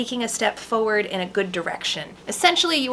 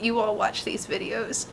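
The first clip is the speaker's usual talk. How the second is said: soft, choked-up gratitude; tearful thanks; 6 dB quieter, slower than usual. Real, not acted. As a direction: thank them sincerely through tears. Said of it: "I'm sorry for losing it".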